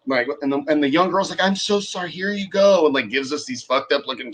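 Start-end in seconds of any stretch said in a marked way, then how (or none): 1.4-2.9 put-on high-pitched apologetic girl; higher voice, hurried-to-please apology; imitated apology. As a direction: mimic a young girl saying sorry.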